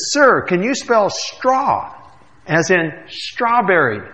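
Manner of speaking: slow, pointed, patronising question. Acted. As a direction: spell it out to a dense customer. Clerk spelling slowly, annoyed.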